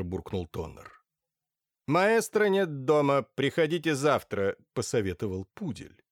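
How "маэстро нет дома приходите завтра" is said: lightly voiced high tinny speaker; a hint of the metallic voice, a bit slower. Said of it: "высокий металлический голос".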